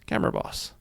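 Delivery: camera boss repeated as a high, soft whisper; whispered echo. Shown as a demonstration. Tutorial host playfully echoing the null's name, whispered. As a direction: breathe the name back to yourself.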